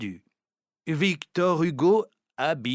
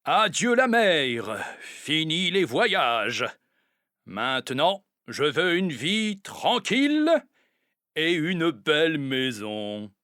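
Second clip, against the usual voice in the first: cheerful new owner; 4 semitones higher than usual. Acted. Retired sailor greeting his new island home, lightly voiced and glad. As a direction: hail the end of the sea voyages.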